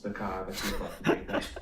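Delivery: laughing while backpedalling. Real, not acted. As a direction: chuckle through the disclaimer. Joking disclaimer, laughing.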